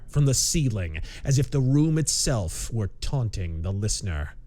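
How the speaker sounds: slow, measured pulp audiobook reading; story narration. A narrator's reading. Narrator unfolding a tense pulp mystery, measured story narration. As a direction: read it deliberately, with suspense between phrases.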